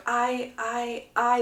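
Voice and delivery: soft, halting false starts; speechless stammer. Acted. Hyacinth cannot answer the proposal, stammering speechless. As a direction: get stuck softly on the first word. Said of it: "literally can't say anything right now".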